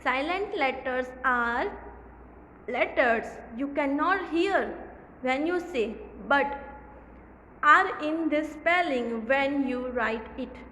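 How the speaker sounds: very slow, careful reading of the definition; slow read-aloud. Shown as a demonstration. Teacher reading the definition aloud to the class. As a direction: lay out each word for young pupils. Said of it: "reads definition slowly".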